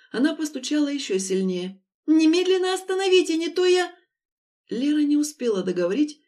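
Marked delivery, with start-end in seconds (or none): 2.1-3.9 much higher and louder, cut off mid-threat; desperate demand. A narrator's reading. Lera threatening the driver, shouting and cut off. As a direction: shout the order, then break off.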